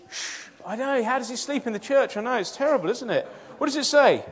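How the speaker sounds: hushed. Real, not acted. Hushing kids near sleeping Dan.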